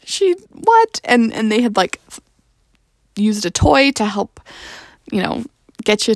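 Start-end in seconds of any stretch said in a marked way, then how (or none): 0.0-1.0 higher, slow amazed what; retold surprise. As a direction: act out the stunned parents. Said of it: "we were like".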